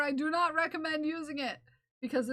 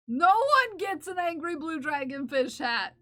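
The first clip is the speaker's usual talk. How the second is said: loud, high playful refusal; mock outrage; 4 semitones higher, 6 dB louder than usual. Streamer refusing her viewers the hat, mock outrage. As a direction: declare it like a mock decree.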